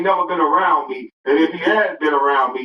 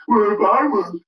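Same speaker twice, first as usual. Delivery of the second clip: mocking Kwame Brown; 4 semitones higher than usual. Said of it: "now imagine Kwame Brown saying that".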